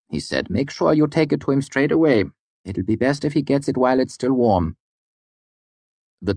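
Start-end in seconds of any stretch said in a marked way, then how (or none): 0.5-4.8 lightly raised, genteel arcanist voice; a hint of a smug court physician; Cordicus voice. A narrator's reading. Cordicus giving final instructions.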